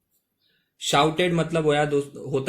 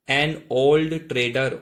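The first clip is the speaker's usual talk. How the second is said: slow model reading; much slower than usual. Shown as a demonstration. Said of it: "old मतलब होता है".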